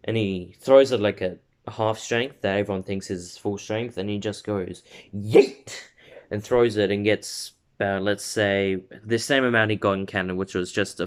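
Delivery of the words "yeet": short, loud mock battle cry; playful yelp on the throw; throwing shout. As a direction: call it out as you hurl a ball. Acting out the ball throw.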